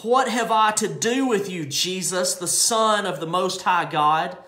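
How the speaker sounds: the demon cries out at Jesus, moderately loud; demon crying out. Acted. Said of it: "He cried out with a loud voice".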